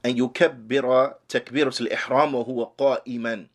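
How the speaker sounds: rapid recitation of the text; reading the Arabic text. Acted. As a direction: rattle off the Arabic passage quickly.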